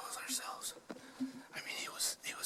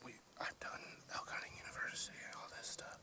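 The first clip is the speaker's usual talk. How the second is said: whispering. Real, not acted. Whispering on a hunt.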